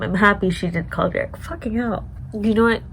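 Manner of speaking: usual speaking voice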